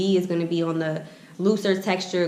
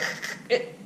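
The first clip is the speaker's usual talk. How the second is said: imitated snag noise; 6 dB quieter than usual. Imitates comb snagging in thick hair.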